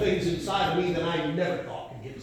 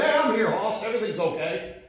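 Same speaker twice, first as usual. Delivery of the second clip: raised pitch, no real volume; mock yell back; 6 semitones higher than usual. Heart answering the preacher's question, mild mock yell. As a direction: imitate a cheerful holler at half voice. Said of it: "Somebody yelled".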